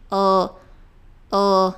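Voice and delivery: "O" as a held dark l sound; isolated dark L. Shown as a demonstration. Teacher isolating English L, tongue up. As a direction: voice "O" with tongue behind the front teeth. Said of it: "Encosta lá atrás dos dentes da frente".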